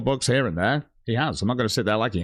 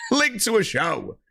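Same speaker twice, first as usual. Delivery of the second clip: laughing repeat; 7 semitones higher, slower than usual. Real, not acted. Mocking repeat of his request.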